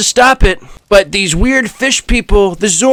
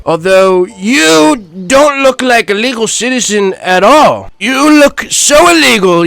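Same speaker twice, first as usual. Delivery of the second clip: mocking taunt; 3 semitones higher than usual. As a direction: jeer at the lost boy. Taunting a boy as illegal.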